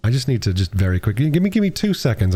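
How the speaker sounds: ordinary delivery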